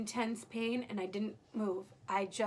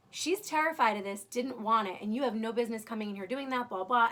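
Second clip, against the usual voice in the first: louder mock telling-off, trailing into blahs; retold flipping out; 5 dB louder than usual. Protective partner tells off the nurse, retold indignation. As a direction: imitate an indignant protector, forcefully. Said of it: "definitely flipped and was like".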